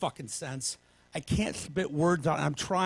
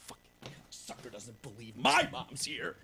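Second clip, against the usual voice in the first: lower, slow grumble under breath; muttered aside; 6 semitones lower, 5 dB quieter, slower than usual. Retold or imitated. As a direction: grumble it to yourself, slowly. Muttered inner thought.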